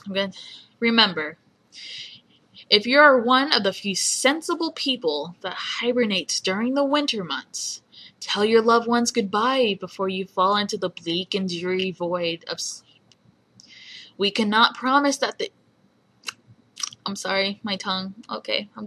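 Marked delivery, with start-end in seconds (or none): 0.8-1.4 lightly attempted radio host impression; Cecil. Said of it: "okay, my Cecil impression". 2.7-13.0 amateur radio host impression, reading aloud; Cecil. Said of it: "okay, my Cecil impression". 14.2-15.5 lightly attempted radio host read; amateur impression of a radio host's announcement; Cecil. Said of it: "okay, my Cecil impression".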